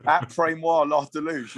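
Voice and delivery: mock French with comic confidence; Del Boy. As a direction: bluff through mangled French, amused. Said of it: "pulling the old Del boys out".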